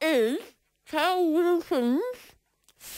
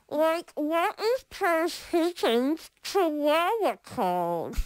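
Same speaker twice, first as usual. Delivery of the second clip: talking through sticky bread; words round a mouthful of bread; mouth full. Real, not acted. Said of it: "It's sticking to the roof of my mouth now".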